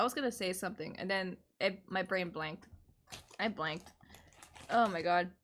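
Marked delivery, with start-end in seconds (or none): 3.4-5.3 talking while crunching chips. Real, not acted. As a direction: mouth full of chips. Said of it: "Crunching on chips".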